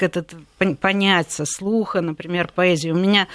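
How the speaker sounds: ordinary delivery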